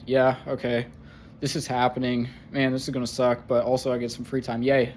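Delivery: understated, unmoved resignation; emotionally numb. Retold or imitated. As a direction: shrug it off with a half-hearted cheer. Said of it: "I couldn't feel a damn thing".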